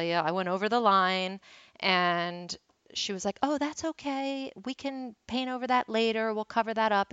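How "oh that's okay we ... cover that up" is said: retold reassurance. Instructor reassures her in the story.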